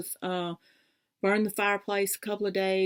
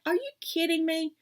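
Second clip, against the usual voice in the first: higher, incredulous mock outrage; exasperated disbelief; 9 semitones higher than usual. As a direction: throw it out in disbelief. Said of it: "I was like".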